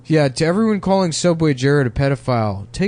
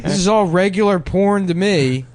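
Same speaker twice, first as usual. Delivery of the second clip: silly put-on voice; 4 semitones higher than usual. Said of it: "a guy that talk like this".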